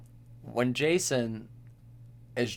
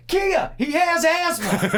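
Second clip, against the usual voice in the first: very high, loud, drawn-out movie yell; mock outraged shout; 7 dB louder, slower than usual. Imitating a character scolding Kia, mock shout. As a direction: shout it slowly, hammed-up and high.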